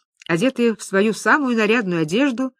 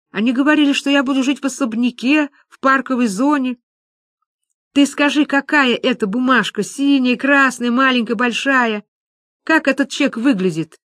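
higher-pitched, worked-up urgency; agitated; 5 semitones higher than usual. Acted. Friends questioning Люба about the cheque, agitated. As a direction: press on in a fretful, raised pitch.

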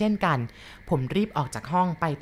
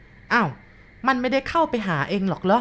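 put-on higher, puzzled old woman's voice; surprised grandma; 5 semitones higher than usual. Grandma asks the boy back, lightly surprised.

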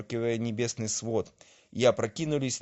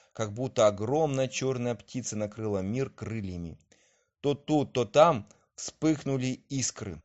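ordinary delivery

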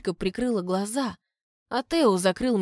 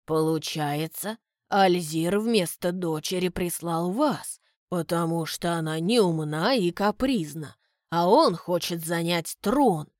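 lower, slow, thoughtful deduction; butler Graham; 3 semitones lower than usual. Acted. The butler concludes aloud, slow and low. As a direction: reason it out calmly.

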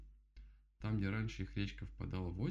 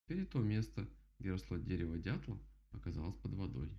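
usual speaking voice

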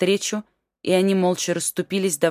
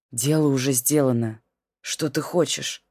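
calm; 3 semitones lower than usual. Acted. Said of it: "Всё ещё сохраняя спокойствие".

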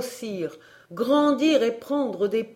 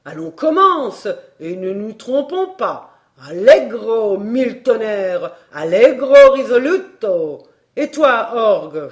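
very loud, wildly swinging conductor's cries; ecstatic shouting; 7 dB louder than usual. A narrator's reading. Professor pumping the imaginary bellows, ecstatic shouting. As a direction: conduct the imaginary organ in frenzy. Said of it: "en me criant".

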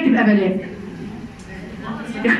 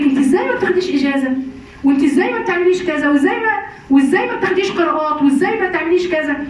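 mocking nagging; 4 semitones higher, faster than usual. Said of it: "تقعد تتنطط عليها، وتقول لك".

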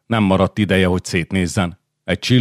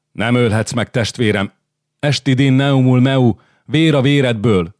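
high, loud, desperate begging; desperate plea; 6 semitones higher, 4 dB louder than usual. Acted. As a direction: cry out to a brother for your life. Radul pleads for his life.

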